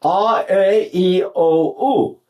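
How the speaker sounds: slow drawn-out vowel series. Shown as a demonstration. Teacher slowly sounding out the vowels to students. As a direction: stretch each vowel slowly. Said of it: "I'm gonna say the words".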